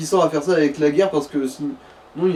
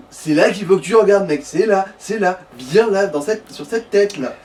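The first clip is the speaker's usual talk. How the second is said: insistent pointing out; 3 semitones higher than usual. Real, not acted. Friend directing a player to the target, insistent. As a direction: drive each "là" home impatiently.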